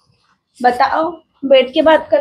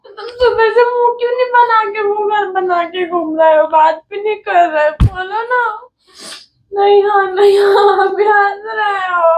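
high weepy complaint; crying; 4 semitones higher than usual. Real, not acted. Wife crying at her husband for sulking all morning. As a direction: cry while scolding him. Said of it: "तो रोने वाली कौन सी बात है इसमें?".

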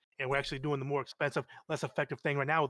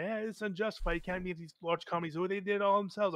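higher-pitched mock objection; imagined objector; 6 semitones higher than usual. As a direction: lightly voice a complaining critic in a higher pitch. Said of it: "So if someone says".

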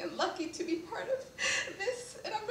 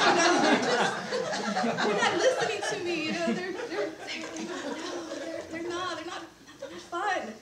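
quoting while laughing; 3 semitones higher, 6 dB louder than usual. Retold or imitated. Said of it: "He's like".

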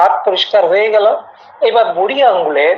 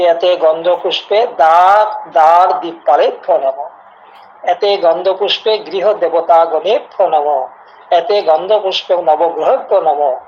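mantra recitation. Shown as a demonstration. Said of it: "এইভাবেও যদি সংক্ষেপে পূজা করেন".

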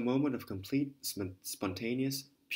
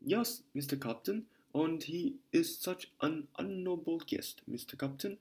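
put-on German accent; 3 semitones higher than usual. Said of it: "strong German accent".

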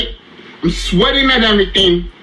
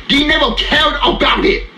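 angry shout; 5 semitones higher than usual. Real, not acted. Angry rant at studio.

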